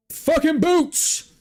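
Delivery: excited yell. Real, not acted. Excited shout-out to viewer Brian.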